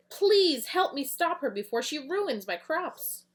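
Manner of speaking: high, slow, loud pleading; pleading farmer. Acted. Miss Green begging Eagle Boy, high and slow. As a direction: beg him slowly to save the crops. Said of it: "Her name is Betterina".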